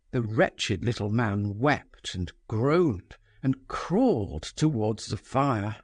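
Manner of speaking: ordinary delivery, nothing marked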